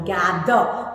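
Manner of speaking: "gather" said low and deliberately; "gather" pronounced carefully as an example; careful pronunciation. Shown as a demonstration. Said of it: "So pronounce the words properly".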